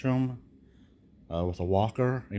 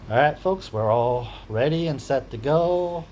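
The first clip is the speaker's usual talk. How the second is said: excited; 5 semitones higher, 6 dB louder than usual. Real, not acted. Upbeat just before surgery.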